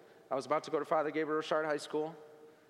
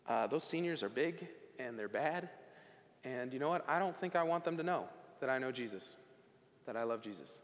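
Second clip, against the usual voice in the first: soft, hushed worried aside; nervous muttering; 5 semitones lower, 6 dB quieter than usual. Retold or imitated. Freshman leaning on locker, quietly afraid of seniors. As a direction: say it low to yourself, intimidated. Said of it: "I leaned my head up against the locker".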